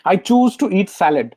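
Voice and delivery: very slow, each word weighed, CHOOSE leaned on; slow affirmation. Shown as a demonstration. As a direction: say it like a vow to yourself. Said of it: "और जब भी salad खाऊं".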